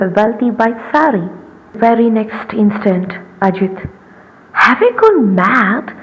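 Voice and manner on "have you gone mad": alarmed. Acted. Wife sets sari on fire.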